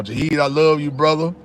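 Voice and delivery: normal talking voice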